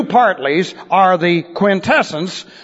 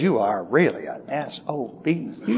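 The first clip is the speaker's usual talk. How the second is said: lower, softer, through a big smile; smiling insult; 6 semitones lower, 10 dB quieter than usual. Retold or imitated. Pastor insulting his listeners, mock-pleasant smiling softness. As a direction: imitate a sweetly smiling pastor, quietly insulting. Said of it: "he's smiling, showing a mouthful of teeth".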